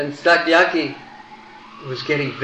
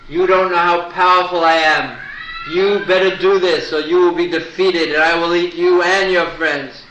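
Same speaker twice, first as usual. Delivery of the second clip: booming demon threat; 4 semitones higher, 4 dB louder than usual. Acted. Giant Rakshasa threatens Krishna.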